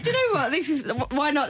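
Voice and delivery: laughing. Retold or imitated. Laughing through own thought.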